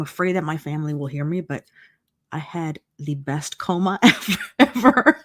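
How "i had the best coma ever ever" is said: laughing through the words. Real, not acted. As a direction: giggle out the last words. Laughing about her best coma.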